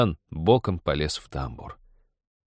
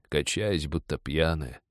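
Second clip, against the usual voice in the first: ordinary delivery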